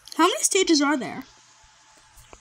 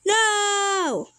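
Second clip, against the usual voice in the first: higher, drawn-out wail; dismayed cry; 4 semitones higher than usual. Real, not acted. Player failing near the end, dismayed cry. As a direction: howl one long "no".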